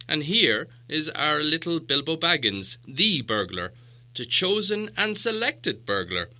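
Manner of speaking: the wizard, dry and ironic; wry wizard. Acted. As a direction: present the chosen burglar with relish. Gandalf presents Bilbo as burglar.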